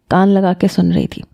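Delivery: ordinary delivery, nothing marked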